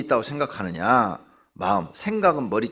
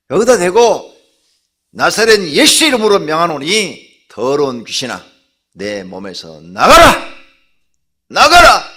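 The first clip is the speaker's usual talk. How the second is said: much louder, higher commanding shout; 6 semitones higher, 14 dB louder than usual. Shown as a demonstration. Preacher showing how to cast out the demon, shouting. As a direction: roar the demon out of your body. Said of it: "막 이렇게 외치면".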